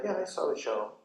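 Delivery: even, unexcited reply; calm, equanimous. Retold or imitated. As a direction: answer calmly, not worked up. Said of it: "You're very equanimous, very calm".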